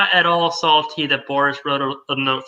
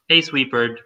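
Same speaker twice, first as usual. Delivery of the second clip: character voice; 4 semitones lower than usual. Pretend. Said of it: "read that in my character voice".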